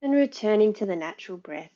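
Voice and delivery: calm meditation lead with long pauses; guided meditation. Real, not acted. Yoga teacher settling the class before practice, guided meditation. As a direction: guide them gently inward, leaving space after each instruction.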